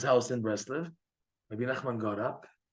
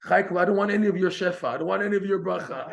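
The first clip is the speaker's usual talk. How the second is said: indignant refusal; 6 semitones higher, faster than usual. Acted. Rebbe lifts coat, refuses blessing.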